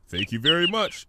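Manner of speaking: high, bright little bird voice; hummingbird's thanks. Acted. Hummingbird thanking Fluttershy, high and light. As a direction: chirp it like a tiny grateful bird.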